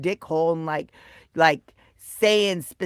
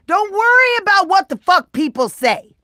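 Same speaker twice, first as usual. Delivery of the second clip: excited; 7 semitones higher, 6 dB louder than usual. Real, not acted. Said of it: "And I'm not yelling at you".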